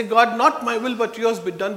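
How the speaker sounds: strong preaching of the prayer; firm proclaimed prayer. Retold or imitated. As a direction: declare it boldly to the congregation. Same prayer, now proclaimed.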